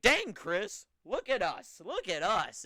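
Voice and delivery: high, loud, hyped-up brag; excited quote. Retold or imitated. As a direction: show off like a pumped-up wrestler. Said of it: "he's like".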